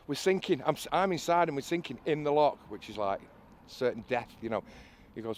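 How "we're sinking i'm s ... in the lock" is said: higher and louder, alarmed; retold panic. Stuck inside a sinking boat, calling out high and loud in alarm. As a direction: blurt it out like the boat is going down. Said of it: "And I'm like".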